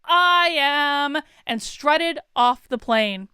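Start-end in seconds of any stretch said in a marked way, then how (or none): 0.0-1.2 drawn-out, cutesy sing-song retort. Retold or imitated. Passenger retorting to the man while leaving the plane, cutesy sing-song. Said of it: "in my most cutesy, sing-songy voice".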